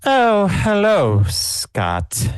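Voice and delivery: slow, loud, icy greeting; cold shift in tone. Acted. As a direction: greet the rival coldly. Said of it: "her voice, tone of voice totally changes".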